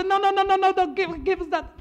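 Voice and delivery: urgent plea. Acted. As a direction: stop them before it is too late. Staff rush to stop loading.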